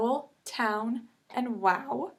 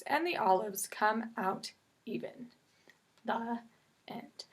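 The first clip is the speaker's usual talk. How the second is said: put-on story reading to children. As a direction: read aloud like a picture book. Reads Frances story aloud.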